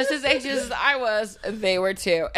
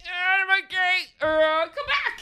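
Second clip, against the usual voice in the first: overwhelmed mom; 10 semitones higher than usual. Retold or imitated. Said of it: "And I'm like".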